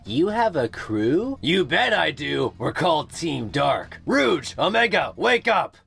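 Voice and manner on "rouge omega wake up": higher, sharp wake-up call. Acted. Shadow rousing his sleeping crew, calling out.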